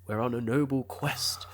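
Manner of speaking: hushed, mock-noble British knight; medieval British knight. Showing the film's accent to her co-host, mock medieval knight. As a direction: play a knight declaring a quest. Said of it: "kinda like medieval knights a little bit".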